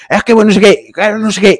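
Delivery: high, mocking imitation of a fumbling excuse; mocking whiny voice. Retelling a dog owner's excuses, high whiny mock voice. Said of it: "lo miré así".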